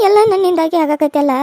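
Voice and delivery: put-on slow, loud grieving old woman; slow lament. Old mother repeating her self-blame, slow lament. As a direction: drag the lament out slowly.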